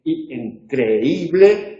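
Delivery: "creíble" slowly, stressed í held apart from the e; syllable by syllable. Shown as a demonstration. Teacher counting beats of the voice, syllabified "creíble". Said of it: "tenemos tres golpes de voz".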